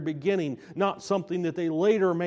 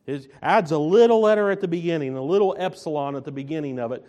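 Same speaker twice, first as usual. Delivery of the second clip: ordinary talk, nothing marked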